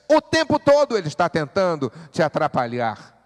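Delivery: loud, high, urgent pulpit preaching; full-force preaching. Acted. Pastor urges the congregation, loud fervent preaching.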